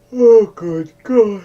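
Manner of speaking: exasperated. Real, not acted. Exasperated aside mid-sentence.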